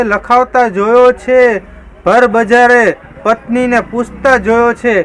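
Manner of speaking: mock-grand poetry reading; shayari recital. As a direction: recite it like a comic couplet with pauses.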